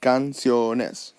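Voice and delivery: "canciones" measured out as can-cio-nes; divided into syllables. Shown as a demonstration. Teacher dividing the plural, "canciones" sounded out syllable by syllable. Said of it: "now you divide the word".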